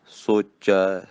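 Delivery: ਸੋਚੈ with the ending sounded clearly as "socha", dulavan vowel on ਚ; ਸੋਚੈ demonstrated slowly for students; careful pronunciation. Shown as a demonstration. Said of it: "ਚੱਚੇ ਨੂੰ ਦਲਾਵਾਂ ਨਾਲ ਉਚਾਰਨ ਕਰਨਾ".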